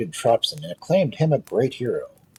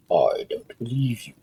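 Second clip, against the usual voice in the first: whisper. Acted. King doubts Tropson.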